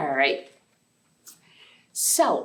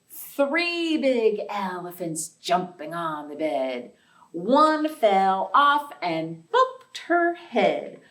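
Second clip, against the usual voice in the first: sing-song nursery rhyme chant; counting rhyme; 2 semitones lower, slower than usual. Acted. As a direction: bounce through it like a playground rhyme. Rhyme verse.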